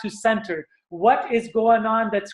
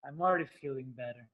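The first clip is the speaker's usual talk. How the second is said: relieved; 8 semitones lower, 12 dB quieter, much faster than usual. Shown as a demonstration. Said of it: "energy in motion".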